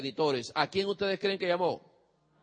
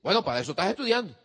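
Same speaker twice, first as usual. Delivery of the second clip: dismissive parent; 4 dB louder, much faster than usual. Retold or imitated. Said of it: "si usted le dice".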